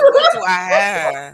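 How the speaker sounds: high laughing cry; laughing shout. Retold or imitated. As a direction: shriek it while cracking up. Acted hunger, laughing shout.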